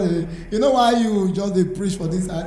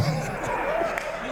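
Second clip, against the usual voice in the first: crowd laughter; 11 dB quieter than usual. Real, not acted. Audience laughs at stand-up joke.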